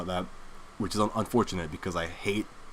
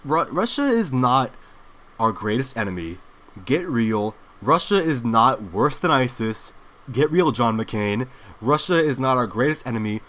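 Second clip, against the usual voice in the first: emphatic rant. Real, not acted. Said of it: "I get intense and I get emotional".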